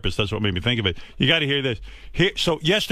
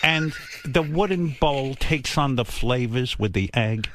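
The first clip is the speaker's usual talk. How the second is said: lecturing mother. Retold or imitated. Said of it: "It was, it was a lecture".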